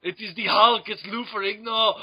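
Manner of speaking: mock Austrian action-star accent; Arnold Schwarzenegger. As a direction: do a jokey muscleman movie voice. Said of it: "Pumping Iron".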